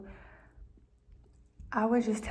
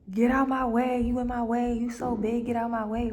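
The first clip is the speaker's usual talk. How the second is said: bad attitude; 2 semitones higher, 5 dB louder than usual. Rude stranger telling someone in their way to move, pushy mock tone. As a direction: act out someone shoving past you. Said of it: "a bad attitude".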